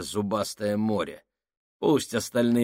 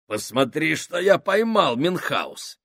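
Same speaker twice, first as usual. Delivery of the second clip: excited; 7 semitones higher, 4 dB louder than usual. Acted. Saks shows off his catch.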